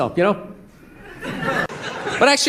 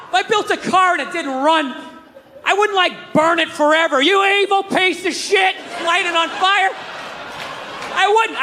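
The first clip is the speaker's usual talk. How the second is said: high, heated and shouting at God; exasperated rant; 5 semitones higher than usual. Acted. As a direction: vent at the creator, pitch climbing.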